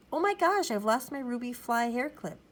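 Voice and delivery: high, loud gasp of alarm; dramatic dismay. A narrator's reading. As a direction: exclaim it like a flustered child star. Child star discovers her hair clip is lost.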